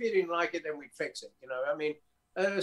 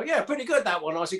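higher, breezy praise; casual approval; 4 semitones higher, faster than usual. Retold or imitated. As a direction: toss off easy encouragement. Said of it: "I go".

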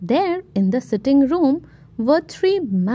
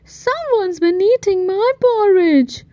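rumbled; 8 semitones higher than usual. Acted. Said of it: "rumbled Mummy Bear".

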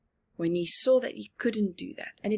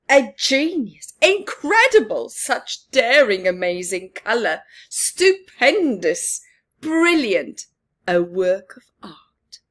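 gushing praise; 9 dB louder than usual. Acted. Al praising Bob's painted beak, loud and gushing. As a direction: rave about the painting like a thrilled critic. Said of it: "said Al".

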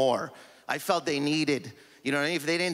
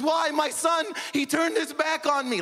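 much higher, shouted lament; mock wailing mom; 14 semitones higher than usual. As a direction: wail it like a hammed-up tragedy. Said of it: "cries like it's the Oscars".

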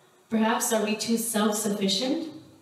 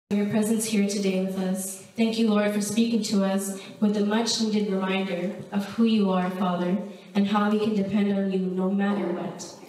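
steady, earnest prayer voice; closing prayer. Acted. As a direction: pray it reverently over the congregation. Pastor closes in prayer.

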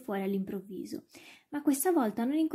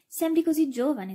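higher, louder amazed remark; boy's astonished exclamation; incredulous exclamation; 5 semitones higher, 5 dB louder than usual. A narrator's reading. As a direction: exclaim in disbelief at your dog. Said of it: "esclamò Alfie incredulo".

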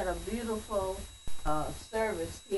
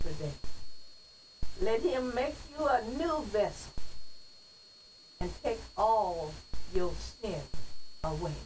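poem recitation. Acted. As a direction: recite it like a church poem, each phrase set apart. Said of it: "But I'm gonna read it as a poem".

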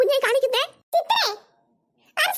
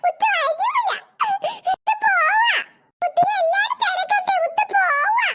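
tearful, pouting protest; childish sulking; 3 semitones higher than usual. Acted. Child nobody called decides to leave, sulky. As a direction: pout and whine in hurt defiance.

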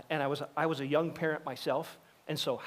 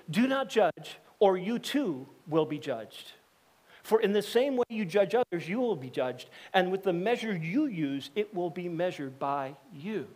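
scripture reading; 2 semitones higher than usual. Acted. Reads scripture aloud.

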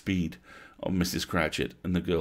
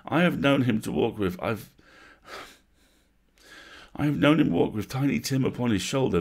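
steady cheerful voice; 5 semitones higher, 3 dB louder than usual. Acted. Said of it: "steady, cheerful voice that only faltered once".

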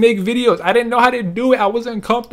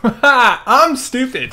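slow, laughing self-mockery; 2 semitones higher, much slower than usual. Real, not acted. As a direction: chuckle it out slowly. Laughing at own flub.

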